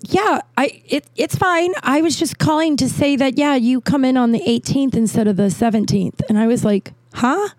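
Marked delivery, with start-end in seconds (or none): 0.1-6.2 high, polite patient explanation; patient caller. Retold or imitated. Dawn Marie explaining the date change, high and polite. 7.2-7.5 high startled huh; confused huh. Retold or imitated. Realising she called the wrong woman, high confused huh.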